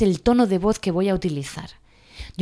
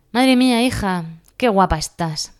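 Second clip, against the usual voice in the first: a mock compliment with a sarcastic edge; offhand compliment. Shown as a demonstration. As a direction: toss it off like a dismissive remark. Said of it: "Cambia todo con la entonación".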